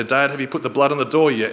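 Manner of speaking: a hint of a restless little boy pleading; anxious kids. Sons pestering dad at bedtime, lightly voiced anxious kids.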